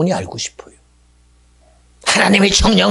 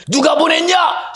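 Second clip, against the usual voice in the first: slow, loud, high demand as God; booming question; 10 semitones higher, 4 dB louder, slower than usual. Acted. God pressing Moses, slow booming shout. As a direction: thunder the question down slowly.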